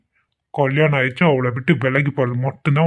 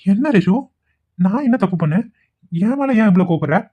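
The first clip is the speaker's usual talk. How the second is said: higher, pleading put-on innocence; fake pleading; 6 semitones higher than usual. Vikram pleads with Reshu, faking hurt innocence. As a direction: whine like a wronged lover to win her over. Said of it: "என் கண் முன்னாடி இப்படி drama பண்றானே".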